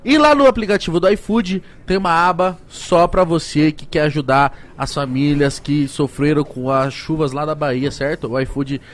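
upbeat sponsor pitch; ad read. Acted. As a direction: sell it like a host ad read. Reads sponsor ads. (leitura de publicidade animada)

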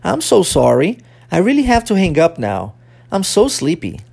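clearly spoken drill sentences; pronunciation model. Shown as a demonstration. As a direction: join the phrases into one careful demonstration. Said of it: "Vamos juntar as duas".

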